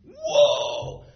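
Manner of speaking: very high, loud What then Whoa; squealed disbelief demo; astonished. Shown as a demonstration. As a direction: act out being stunned. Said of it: "That's what astonishment is".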